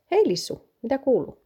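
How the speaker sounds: high-pitched, cheery hello to a friend; bright greeting. Acted. Maikki meets a friend on the walk, cheery high greeting.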